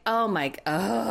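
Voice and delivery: slow, drawn-out exasperated "oh"; exasperated groan. Real, not acted. Host fed up with his insulting demand, exasperated. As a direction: groan in real outrage, dragging it out.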